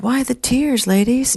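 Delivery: high-pitched, brisk-minded challenge; no-BS secretary. Retold or imitated. Secretary walking in on crying women, no-nonsense. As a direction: imitate her awesome no-nonsense voice. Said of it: "she's like, no B S".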